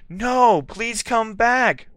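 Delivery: high, slow, pleading begging. A narrator's reading. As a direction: beg her to stay. Draco begging.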